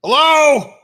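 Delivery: belted-out high festive hello; festive loud greeting. Acted. Barbarian at the smithy door, loud festive hello. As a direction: announce yourself loudly and cheerfully at the door. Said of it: "Loudly, festively".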